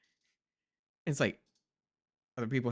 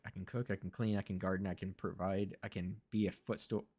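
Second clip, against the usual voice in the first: mock quote; 5 semitones lower, 10 dB quieter than usual. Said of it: "She was saying that real quick".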